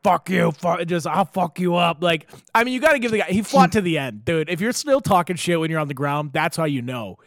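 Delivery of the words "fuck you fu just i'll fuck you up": strained mock yell, drawn out; half-volume slow scream; retold screaming. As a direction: imitate a man yelling while being held down. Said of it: "he's just screaming".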